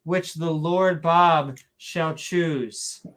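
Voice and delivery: drawn-out, hammy King James scripture reading; mock Shakespearean accent. Mocking scripture for a co-host, mock Shakespearean accent. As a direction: declaim it in a fake Shakespearean accent. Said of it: "saying it in a Shakespearean accent".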